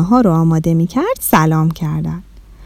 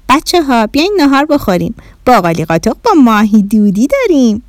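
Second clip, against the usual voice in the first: raised-pitch mother's call; 3 semitones higher than usual. Acted. Mother calling the children to lunch, calling out. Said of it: "مامان صداشون کرد".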